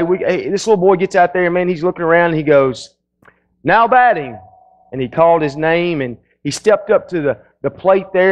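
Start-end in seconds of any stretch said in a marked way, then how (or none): 3.6-4.4 a boy's mock stadium announcer, pitched up; announcer call. Little boy announcing his own turn at bat, mock announcer. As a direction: boom it out like a ballpark announcer.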